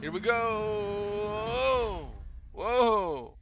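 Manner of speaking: long, high drawn-out cheer; excited whoop. Real, not acted. Gamer cheering on the race, excited whoop.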